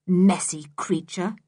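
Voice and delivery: slow, mildly scornful verdict; a touch of disgust. Acted. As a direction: draw it out in distaste. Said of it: "said Dick in disgust".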